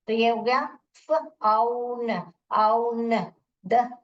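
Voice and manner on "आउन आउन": आउन said as one drawn-out syllable; syllable sounding-out. Shown as a demonstration. Teacher dividing a word for pupils, syllable sounded out. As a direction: stretch आउन as a single chunk. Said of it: "तो यहाँ पर हम divide करेंगे".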